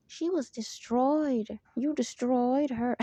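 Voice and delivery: mock scolding manager. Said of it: "this is the word they used".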